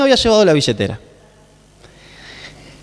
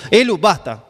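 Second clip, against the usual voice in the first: serious voice. Retold or imitated. Father warning Elu who keeps playing, firmer serious voice. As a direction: imitate a parent's last warning. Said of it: "medio que pone la voz seria".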